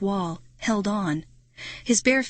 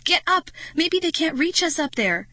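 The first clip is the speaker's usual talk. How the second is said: urgent shout; 9 semitones higher than usual. Acted. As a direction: shout at Marty to climb. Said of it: "I cried".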